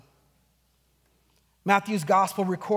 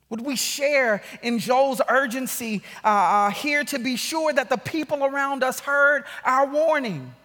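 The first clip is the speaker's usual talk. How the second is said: raised, insistent pulpit questioning; urgent preaching; 5 semitones higher, 6 dB louder than usual. Real, not acted. Preacher urges believers to warn those around them, preaching urgently. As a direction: press each question on the congregation.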